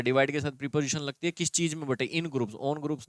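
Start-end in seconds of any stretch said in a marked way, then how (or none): 2.1-3.1 slow contrast. Shown as a demonstration. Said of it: "नहीं होता".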